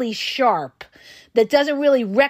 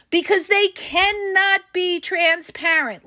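slow, higher-pitched, word-by-word "cannot be transparent"; deliberate emphasis; 6 semitones higher than usual. Real, not acted. Coach explaining why problems never resolve, deliberately stressing "cannot be transparent". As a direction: spell out "cannot be transparent" one word at a time. Spelling out the key point.

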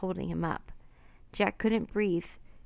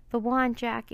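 shouting; 4 semitones higher than usual. Acted. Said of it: "Annie shouted".

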